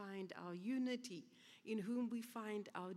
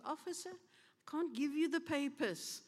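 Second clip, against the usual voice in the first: put-on sweet old lady; 4 semitones higher than usual. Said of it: "sweetly said to him".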